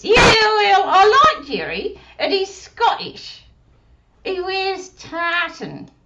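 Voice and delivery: put-on high little girl puppet voice; squeaky childlike puppet; Susie puppet voice. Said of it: "does Susie practice".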